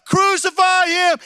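very loud, very high, slow raging roar; enraged shout. Acted. Preacher voicing the enraged crowd at Pilate, furious roar. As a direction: scream it with full fury. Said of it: "they begin to shout with anger".

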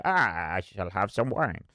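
badly faked Italian accent; terrible Italian accent. Vlogger mocking Italians chatting over wine, bad Italian accent. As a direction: have a half-hearted go at an Italian accent. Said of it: "that's the worst Italian accent you've ever heard".

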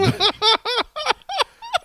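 squealing laugh; high burst of laughter. Real, not acted. Host reacting to the shocking story with a high laugh.

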